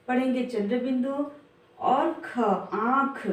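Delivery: आंख said with a nasal आ; nasal vowel demo. Shown as a demonstration. Teacher showing pupils the nasal sound. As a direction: push the आ of आंख through the nose. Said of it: "नाक से ही इसका pronounce".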